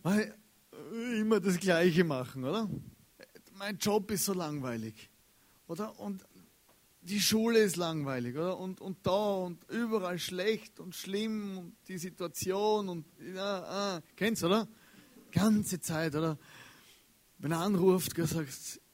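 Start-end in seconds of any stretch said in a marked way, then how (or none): 3.5-14.0 whiny complaining. Retold or imitated. Preacher imitating people who complain all the time, mock whining. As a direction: moan about everything being boring. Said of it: "manche Leute jammern".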